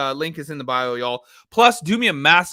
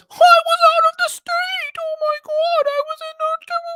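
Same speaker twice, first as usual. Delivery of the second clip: taunting, mocking voice, pitched very high. Mocking a man who claims he was out of state, doing his voice. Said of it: "let's do his voice".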